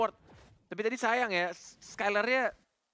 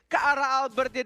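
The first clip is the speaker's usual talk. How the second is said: fighting game announcer; 9 semitones higher, 4 dB louder than usual. Acted.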